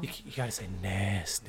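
sultry whisper. Shown as a demonstration. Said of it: "you gotta whisper into the mic, like, all sultry".

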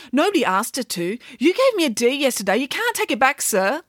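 high, aggrieved complaint; indignant schoolgirl. Acted. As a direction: plead your case to the teacher, pitched high. Mirabella protests to the teacher.

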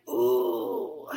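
low, soft, drawn-out groan; reluctant groan. Retold or imitated. Answering God's challenge, reluctant groan. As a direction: let out a long, low "oh".

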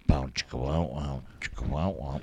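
low, half-sung "bow chicka wow wow"; mock risqué music riff. Jokingly voices a risqué music riff.

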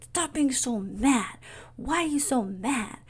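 exasperated parent. Retold or imitated. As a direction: imitate a parent chiding an upset child. Parent voiced scolding an angry son.

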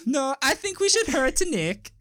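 high, drawn-out cartoon villain; scheming subconscious. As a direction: argue back in a put-on accent. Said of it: "subconscious Nick would have some kind of".

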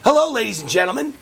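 lightly voiced old politician greeting a crowd; mock old senator at the mic; Mitch McConnell imitation. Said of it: "Let me do my Mitch McConnell imitation".

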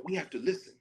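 a slight parody of "We have to listen"; quoting Jon Stewart. Retold or imitated. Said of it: "And then he made fun of it".

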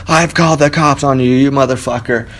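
half-hearted impression of a yelling neighbor; mock yelling. Neighbor threatening someone late Sunday night, mock yelling. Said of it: "someone yelling, saying".

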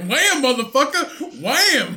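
high loud mock battle cry; hammed-up yell. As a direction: bellow it like a cartoon hero. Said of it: "I was like".

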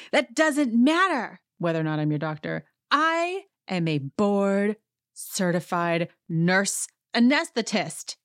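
slow, emphatic mock indignation; imitated self-important huff; heated imitation. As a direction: declare the credentials with mock outrage, drawn out. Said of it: "is heated now on her own".

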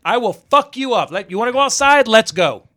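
daring a heckler at the bar to step outside, half-mocking; retold fight challenge. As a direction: square up and call him out.

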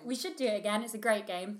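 real frog in the throat; hoarse, scratchy everyday talk; croaky voice. Real, not acted. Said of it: "Sorry, I'm very croaky today".

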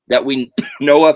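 coughing mid-sentence. Real, not acted. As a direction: clear a cough through the words. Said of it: "Excuse me, I'm coughing".

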